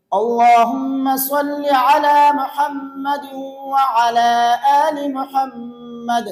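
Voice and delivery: no pauses, all on one breath. Shown as a demonstration. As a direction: run the phrases together in a single breath. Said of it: "ایک سانس میں پڑھیں گے تو یوں پڑھیں گے".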